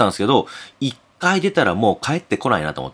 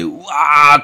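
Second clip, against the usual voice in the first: long, loud mock yell; higher, louder imitation of yelling; imitated shouting; 4 semitones higher, 5 dB louder, much slower than usual. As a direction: raise the voice in a drawn-out retold shout. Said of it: "大声で".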